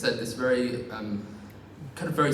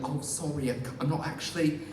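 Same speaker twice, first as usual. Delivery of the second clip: mock apology; 2 semitones higher, faster than usual. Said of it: "you can't say to them".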